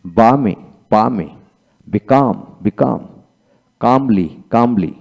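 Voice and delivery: বিকাম and কামলি said slowly; slow demo. Shown as a demonstration. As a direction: draw out each word for the class. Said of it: "তারপরে আসেন বামে". (ধীরে ধীরে বলা)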